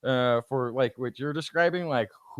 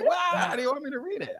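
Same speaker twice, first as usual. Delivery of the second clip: higher, rushed complaint; mock exasperation; 9 semitones higher, 3 dB quieter, faster than usual. Parent answering a correcting child, mock exasperated. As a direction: throw it back, fed up.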